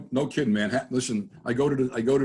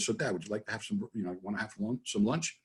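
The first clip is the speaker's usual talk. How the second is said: much softer, testing his hearing; lowered voice; 2 semitones lower, 8 dB quieter than usual. Retold or imitated. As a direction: ask it low, under the radio. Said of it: "I said to him real low".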